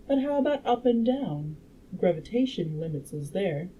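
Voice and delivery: measured audiobook reading; story narration. A narrator's reading. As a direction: read the scientist's explanation out like a storyteller.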